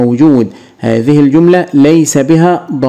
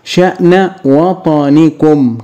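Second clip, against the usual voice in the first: slow dictation; much slower than usual. Shown as a demonstration. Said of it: "هنضيف لها أيضًا واو الجماعة".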